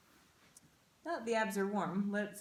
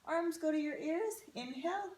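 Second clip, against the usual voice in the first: talking while doing sit-ups; strained from the ab work; 3 semitones higher than usual. Real, not acted. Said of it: "my abs are on fire".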